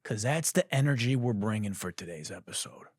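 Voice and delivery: whispered aside; conspiratorial whisper to the listeners. Real, not acted. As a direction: drop to a hushed whisper. Whispered aside about energy.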